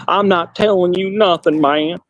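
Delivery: lightly put-on hillbilly twang; mock hillbilly accent. Man mimicking a rival dodging a question about his degree, mock hillbilly accent. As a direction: imitate an evasive hillbilly's accent. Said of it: "he's a hillbilly".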